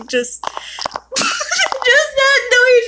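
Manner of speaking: very slow, high, laughter-broken words; real giggling at a silly noise; laughing through words. Real, not acted. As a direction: squeeze it out between giggles.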